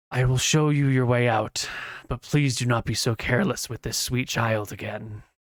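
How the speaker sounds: put-on unicorn voice with a sigh. Game narrator voicing a unicorn speaking telepathically to the players, sighing unicorn voice. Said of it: "you can still hear the sigh of the unicorn".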